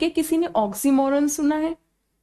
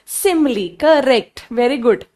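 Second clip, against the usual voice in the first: praise; 6 dB louder, much slower than usual. Real, not acted. Teacher praising a student.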